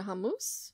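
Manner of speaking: hummus said the Lebanese family way; Lebanese family pronunciation. Real, not acted. Gamer orders pita for her character, Lebanese pronunciation. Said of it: "that's how we pronounce it".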